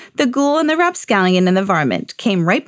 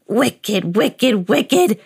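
shout; much slower than usual. A narrator's reading. Old man scolds the laughing varmint, building mock shout. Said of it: "shouted the old man".

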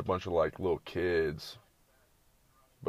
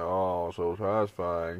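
mock satisfaction; 2 semitones lower, slower than usual. Mocking satisfying-video reactions.

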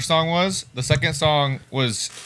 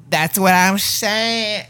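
dude voice; 5 semitones higher, much slower than usual. Retold or imitated. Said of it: "You're like that dude that's like".

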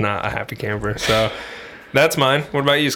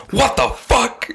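imitating a shocked mom, much higher; hammed-up horrified mom, pitched up; mock outraged mom; 14 semitones higher, much slower than usual. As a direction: squeal it like a mother hearing bad news. Mom told her son is dead.

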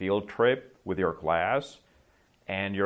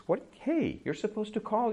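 annoyed boss; 12 semitones higher, 3 dB quieter than usual. Retold or imitated. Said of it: "your boss comes and says".

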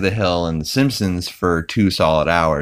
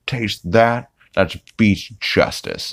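tough cop quip; 3 semitones higher, slower than usual. Retold or imitated. Cop hero quip after tackle.

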